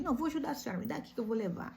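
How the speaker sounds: a hint of a young boy offering help; street kid. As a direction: gently insist on helping like the kid.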